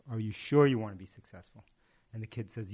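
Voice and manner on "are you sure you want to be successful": louder, rising challenge; the guru tests him louder in the deepening water; pressing guru. Retold or imitated. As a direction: push him harder as the water rises. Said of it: "And the guru says".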